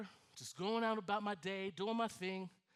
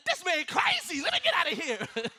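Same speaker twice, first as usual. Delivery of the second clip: dog's thoughts; 7 semitones higher, 10 dB louder than usual. Retold or imitated. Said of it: "that dog looked at me and was like".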